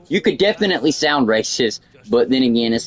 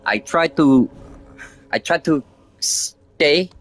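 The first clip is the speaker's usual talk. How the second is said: put-on Indian accent; 2 semitones lower than usual. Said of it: "Indian accent".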